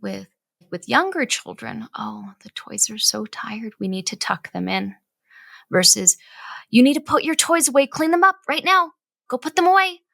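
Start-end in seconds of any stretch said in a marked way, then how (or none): 2.0-5.0 soft, lilting bedtime voice for toddlers; gentle coaxing. Shown as a demonstration. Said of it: "It's a very different style". 6.7-10.0 much higher, louder barked orders; bossy command. Shown as a demonstration. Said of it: "It's a very different style".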